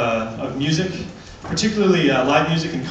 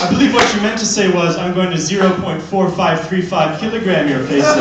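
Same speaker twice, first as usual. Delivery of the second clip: prim, louder know-it-all correction; pedantic correction; 2 semitones higher, 5 dB louder than usual. Retold or imitated. Comedian mock-correcting a threatening man into kilograms, prim and smug. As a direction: smugly correct his units. Pedantic reply in retold fight.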